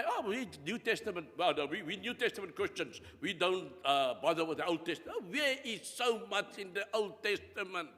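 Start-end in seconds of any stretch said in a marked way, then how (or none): 0.0-5.1 quick, offhand imitation of complacent Christians; mock dismissive believers. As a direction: rattle it off as a breezy excuse. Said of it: "We cannot say today".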